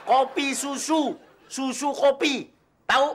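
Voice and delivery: put-on fussy old boss. Fussy old master savouring his drink order. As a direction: savour each drink name like a spoiled master.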